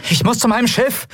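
high, strained call; shouting back. Acted. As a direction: yell back over the din as you run. Shouting back while running amid noise.

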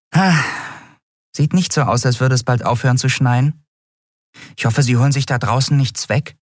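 mildly worried, high little voice; high tiny creature voice. Acted. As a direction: look out at the snow. Nelen's voice.

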